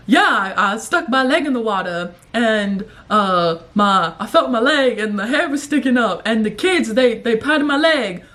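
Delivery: lightly imitated rambling politician; hint of a mock anecdote-telling politician, halting; Biden. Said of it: "One of the memes I saw of him, he was like".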